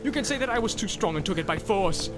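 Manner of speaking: tempt, then threaten; Boromir tempting then crying out. A narrator's reading. Boromir tempting Frodo, rising to a threatening cry. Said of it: "he cried".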